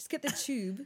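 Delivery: put-on upper-class British accent, laid on very thick. Imitating a friend who says everything very posh: Katie Locker posh impression. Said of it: "I'm trying to do Katie Locker, our friend, who says like everything very posh".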